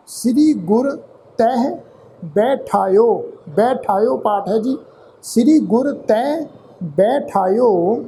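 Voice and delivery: measured, drawn-out reading of Gurbani verse; slow scripture recitation. Shown as a demonstration. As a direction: recite each phrase slowly with pauses.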